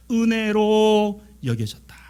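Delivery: slow, sustained declaration on a held note; drawn-out proclamation. Real, not acted. Preacher crowning a list of graces, drawn-out proclamation. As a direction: stretch 은혜로 out long and full, then fall away. Preacher's climactic line, then hushed repeat.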